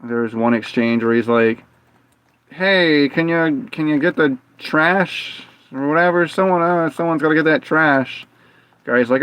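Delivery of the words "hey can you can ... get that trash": higher, easygoing imitated voice; lightly voiced coworker asking a favour; retold coworker request.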